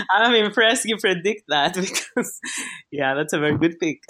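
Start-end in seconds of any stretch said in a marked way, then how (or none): 2.9-4.0 quick, lower, teasing "very good pick"; mock praise. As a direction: tease him with fake admiration. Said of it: "I'm teasing".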